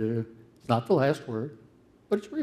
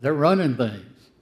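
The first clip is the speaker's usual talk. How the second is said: loud, higher, indignant insistence; Jeremiah's protest; 5 semitones higher, 9 dB louder than usual. Retold or imitated. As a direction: hammer home that they're not wilting. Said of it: "He says".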